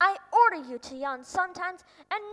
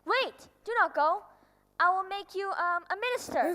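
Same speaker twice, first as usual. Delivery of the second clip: higher, louder call to stop; urgent plea; 6 semitones higher, 4 dB louder than usual. Acted. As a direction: stop him before he leaves. King begs prince to stay.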